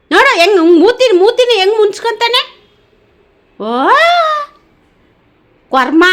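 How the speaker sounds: loud exasperated telling-off; loud scolding of a pet; scolding the dog. Real, not acted.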